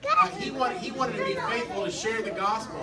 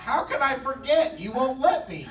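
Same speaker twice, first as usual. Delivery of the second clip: laughing; 5 semitones higher, 4 dB louder than usual. Acted. Teased about crocodile scare.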